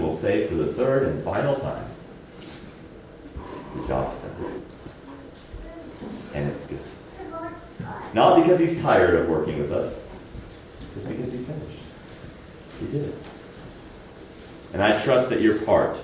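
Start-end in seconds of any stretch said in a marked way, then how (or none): 3.8-6.8 very soft, low pronouncement; hushed final word. Acted. Preacher voicing heaven's third and final word, hushed. 10.9-13.1 very soft, nearly whispered; hushed awe. Real, not acted. Preacher telling the church the work is finished, hushed awe.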